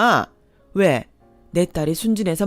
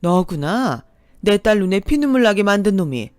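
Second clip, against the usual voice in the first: louder, cold threat to the man; menacing anger; 2 semitones higher, 4 dB louder than usual. Acted. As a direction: confront him, seething. Mother confronts the ex.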